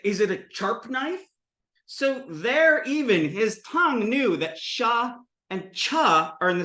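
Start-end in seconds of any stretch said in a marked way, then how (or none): 0.1-1.3 "sharp" said as "charp", rising question; brother's ch for sh in "sharp"; sh turned to ch. Retold or imitated. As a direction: start "sharp" with a ch, pitched higher. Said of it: "take sh sounds and make them ch".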